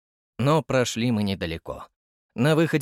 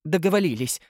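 pleased; 5 semitones higher than usual. A narrator's reading. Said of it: "довольно сказал я".

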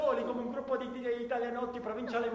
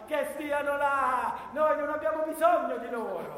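angry shout. Acted. Minister's tirade.

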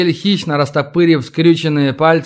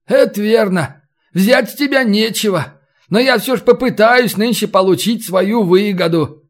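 higher-pitched, pleased bargainer; a lively captor answering his prisoner, pitched up; raised, animated storybook voice; lightly voiced captor; 6 semitones higher than usual.

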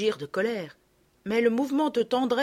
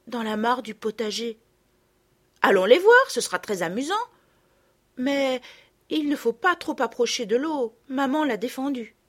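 lightly voiced curious children; curious girls; 2 semitones higher, 5 dB louder than usual. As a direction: rush off to see. Girls go to the pond.

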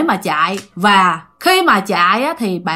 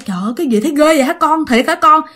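quick, higher-pitched disbelief; retold alarmed surprise; 4 semitones higher, much faster than usual. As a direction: react in a rush, as a shocked mother. Mother reacts to the frightening account. (giả giọng người mẹ hốt hoảng, nói nhanh)

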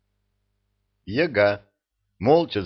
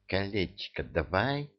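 hissing; 6 dB quieter than usual. Acted. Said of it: "прошипел".

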